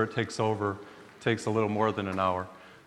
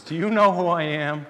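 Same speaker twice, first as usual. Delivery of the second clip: put-on elderly woman; 6 semitones higher, 5 dB louder than usual. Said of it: "she was elderly".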